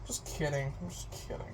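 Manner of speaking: breathy whisper of I'm just kidding. Real, not acted. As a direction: whisper it, backing off. Takes back mock threat.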